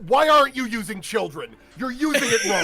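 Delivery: loud, high complaint breaking into laughter; mock indignant critic. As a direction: scold in disbelief, starting to laugh. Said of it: "and you're saying".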